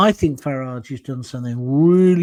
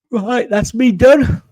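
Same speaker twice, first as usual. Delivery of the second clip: drawn-out, louder and higher "that's me done"; cheery sign-off; 7 semitones higher, 9 dB louder, slower than usual. Real, not acted. Streamer wrapping up his live stream, cheerily. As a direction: wind up the show brightly and slowly.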